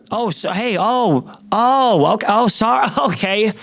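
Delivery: high mock-polite sarcasm, breaking into a laugh; sarcastic comeback. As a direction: fake apology dripping with sarcasm. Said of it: "That's what I wanted to say".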